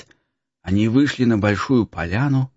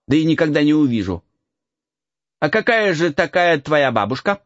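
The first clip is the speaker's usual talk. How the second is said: put-on light higher boyish voice; cheeky peasant boy; 7 semitones higher than usual. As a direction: tease the lost boy. Boy character voice.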